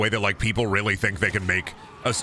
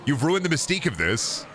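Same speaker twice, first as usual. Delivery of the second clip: retold rant; 4 semitones higher than usual. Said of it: "I was like".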